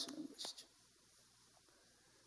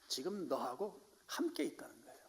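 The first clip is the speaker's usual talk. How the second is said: breathy whisper of God's closeness; 11 dB quieter than usual. Acted. God assuring lonely Elijah, whispered. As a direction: lean in and whisper it.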